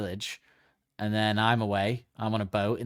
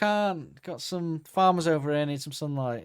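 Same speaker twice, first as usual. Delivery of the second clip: high excusing sun; 5 semitones higher than usual. Pretend. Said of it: "He's like".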